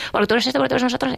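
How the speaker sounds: fast, high, heated accusations; quarrel insults. Retold or imitated. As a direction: rattle off the insults mid-fight. Mutual insults in the argument. (reproches rápidos y acalorados)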